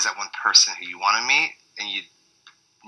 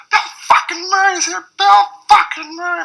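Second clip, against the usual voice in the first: much higher, louder giddy shriek; ecstatic squeal; 5 dB louder than usual. Retold or imitated. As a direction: squeal it like a starstruck fan. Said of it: "I was like".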